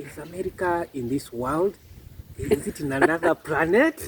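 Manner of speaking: mock-puzzled question, breaking into a laugh at the end; naive wondering question. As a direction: rise into amused disbelief. Voices people's naive wondering question.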